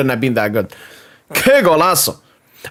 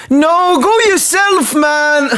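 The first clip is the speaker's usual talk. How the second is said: much higher, raised yell at the screen; frustrated yell; 9 semitones higher, much slower than usual. Real, not acted. Fan shouting at Barcola to take the chance, high frustrated yell. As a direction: tell him to go himself. Yelling at the player.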